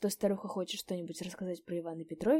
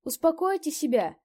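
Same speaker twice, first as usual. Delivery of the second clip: high, louder pleading falsetto; 10 semitones higher, 9 dB louder than usual. A narrator's reading. A peasant begs the drunk to sleep, in falsetto. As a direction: coax him in a thin high voice. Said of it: "отвечал фистулой другой голос".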